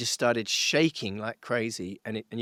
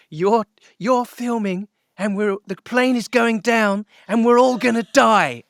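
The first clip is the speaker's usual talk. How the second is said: much higher and louder, slow hysterical scream; screaming stewardess; 9 semitones higher, 8 dB louder, slower than usual. Retold or imitated. Stewardess screaming at filming passengers, hysterical high scream. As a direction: scream it like the plane is going down. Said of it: "she screamed at the top of her voice".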